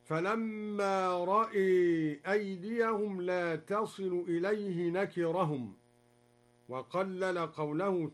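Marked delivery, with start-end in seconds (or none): 0.0-5.7 رأى read ra'e, the a after the همزة leaned toward e; imala on the hamza. Shown as a demonstration. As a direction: tilt the vowel of رأى toward e. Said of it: "قرأ الدوري بإمالة الهمزة".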